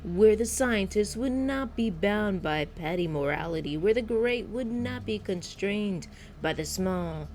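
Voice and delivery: lightly acted emphatic speechmaker; Andrew Ryan. Founder selling Rapture as your city, mildly declaiming. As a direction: declaim it with punched key words. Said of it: "I am Andrew Ryan".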